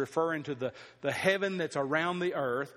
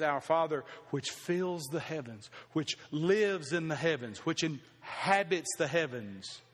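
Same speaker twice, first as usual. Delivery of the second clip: reverent quote. Retold or imitated. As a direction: hush it like a prayer. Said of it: "But he says".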